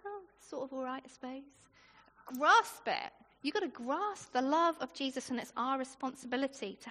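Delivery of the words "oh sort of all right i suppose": softer, trailing off unenthused; half-hearted shrug. Retold or imitated. Lukewarm believer shrugging off God's love, dull and half-hearted. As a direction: mumble it with no conviction. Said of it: "Don't, like".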